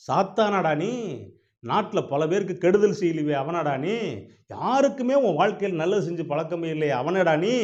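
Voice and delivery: high, mounting incredulous questions; shocked. Acted. God learns it is Satan, shocked and accusing. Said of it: "கடவுளுக்கு shock ஆயிருச்சு".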